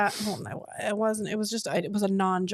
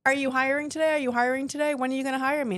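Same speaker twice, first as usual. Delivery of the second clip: higher-pitched, insistent retold questions; mock pestering; 4 semitones higher, faster than usual. Job seeker who kept going by, mock pestering. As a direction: imitate yourself lightly badgering for a job.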